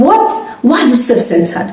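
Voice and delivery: high, mock outraged what with a laugh; half-laughing at her own outrage; indignant surprise. Wife retelling her shock at husband eating her meat, laughing indignation. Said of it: "I was like".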